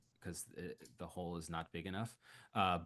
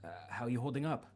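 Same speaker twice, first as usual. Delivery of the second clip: lightly raised, eager Arabelle voice; a concerned ally checking in; 4 semitones higher than usual. Acted. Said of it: "and she goes".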